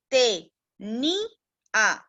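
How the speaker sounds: "te", "ni", "a" each set apart by pauses; syllable by syllable. Shown as a demonstration. Teacher splitting "tenía" for the children, syllable by syllable. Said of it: "Lo separamos en sílaba y sería".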